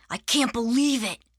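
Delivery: understated, downbeat "can't believe it"; said with little lift, falling at the end; a touch of dejection; subdued disbelief. Acted. Arthur dejected on last morning.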